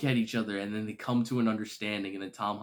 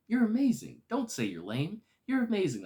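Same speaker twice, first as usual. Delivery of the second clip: imitated pep talk; 10 semitones higher than usual. Acts Spider-Man encouraging self-doubting Spider-Man.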